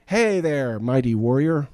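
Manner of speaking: loud, booming, cheerful hello; hearty angel greeting. Retold or imitated. Angel of the Lord hailing Gideon, loud and hearty. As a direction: greet him like a hero. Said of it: "the angel of the Lord says".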